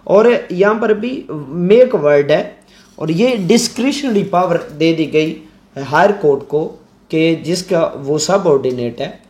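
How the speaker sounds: usual speaking voice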